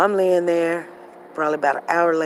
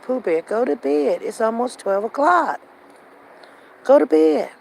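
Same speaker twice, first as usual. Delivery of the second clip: firm bedtime order; 8 semitones higher, 5 dB louder than usual. Retold or imitated. Mother ordering child to bed.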